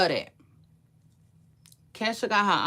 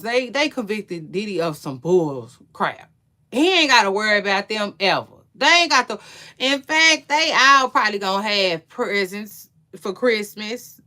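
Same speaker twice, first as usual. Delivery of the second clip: louder and quicker, sarcastic and fired up; heated rant; 7 dB louder than usual. Real, not acted. Host mocking jurors who freed Diddy, sarcastic and loud.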